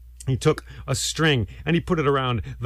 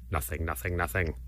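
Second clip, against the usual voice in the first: hushed whispered nothing; whispering; 7 semitones lower, 8 dB quieter than usual. Acted. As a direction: breathe it out softly. Statue's silence.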